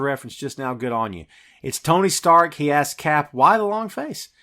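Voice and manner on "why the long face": Tony's quip. Retold or imitated. Tony's quips quoted.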